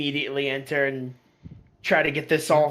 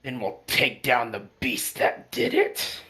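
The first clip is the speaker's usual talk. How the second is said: lightly voiced grave resolve, slower; serious dwarf; 3 semitones lower, slower than usual. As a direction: speak with slow, measured seriousness. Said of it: "gets a more serious look on his face".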